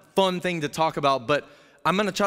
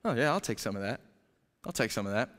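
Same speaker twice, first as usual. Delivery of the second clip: quiet, lazy eager mumble; softly grab the offer; Adam shrugging and taking the fruit; mock greedy Adam; 7 semitones lower, 8 dB quieter, faster than usual. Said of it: "he just stands there and goes".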